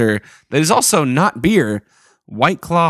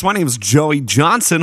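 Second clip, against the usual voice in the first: new radio voice. Acted. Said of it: "Checking out a new radio voice".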